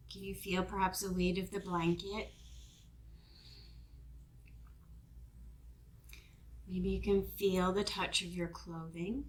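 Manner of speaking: calm, measured meditation guide with long pauses; guided meditation. Real, not acted. Yoga teacher guiding the room through a body scan, guided meditation. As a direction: ease listeners into rest, phrase by phrase.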